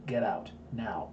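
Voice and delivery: slow, hushed warning; urgent whisper. Retold or imitated. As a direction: lean in and breathe it slowly. Urgent warning to seminar crowd.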